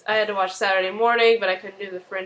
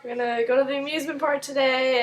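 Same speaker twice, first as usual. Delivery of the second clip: Olivia; 5 semitones higher than usual. Retold or imitated. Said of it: "Olivia's all like".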